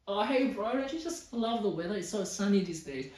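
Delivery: hammed-up casual small talk, starting high and loud; chatty boaster. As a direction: play an over-friendly show-off angling to brag. Acting a boaster making small talk.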